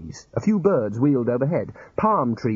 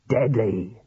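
firm. Acted. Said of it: "said the senior wrangler firmly".

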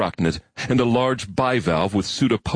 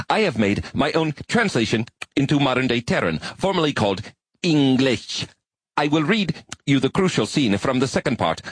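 higher, earnest insect-like alien voice; high alien arachnid; 7 semitones higher than usual. Acted. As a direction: play an eager, bookish spider creature.

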